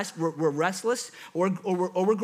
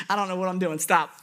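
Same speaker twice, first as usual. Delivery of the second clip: laughing; 3 semitones lower than usual. Real, not acted. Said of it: "I don't know why I keep laughing".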